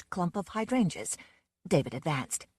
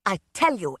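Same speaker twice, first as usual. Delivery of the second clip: louder insistent start; shouted; 5 dB louder than usual. Acted. Aunt Elizabeth insisting to the police on the phone, loud and angry. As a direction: hammer the point home. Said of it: "Aunt Elizabeth shouted".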